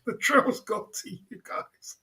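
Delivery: drawn-out pitying whisper; whispered mock pity. Mocking repeat of his own line.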